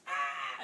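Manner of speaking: loud mock scream; short loud "ah" of fright; little storybook shriek; startled yelp. Turtles shriek at the nose.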